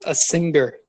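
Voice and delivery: "singer" said as sing-ger; hard G in singer. Shown as a demonstration. Teasing the volunteer singer, hard G in "singer". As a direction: sound a hard g in the middle of "singer". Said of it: "if you do a hard G E R".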